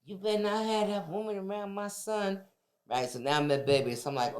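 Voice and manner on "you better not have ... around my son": threatening warning. Retold or imitated. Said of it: "I used to threaten Kenny".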